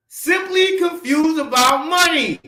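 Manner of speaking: deliberate acronym reveal; emphatic. Real, not acted. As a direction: spell out the acronym slowly. Repeating acronym meaning.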